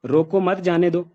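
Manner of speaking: "रोको मत" as one phrase, then "जाने दो"; group "रोको मत" together, meaning don't stop them; slow "रोको मत", break, "जाने दो"; pause after मत. Shown as a demonstration. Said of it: "पहली लाइन में ये है".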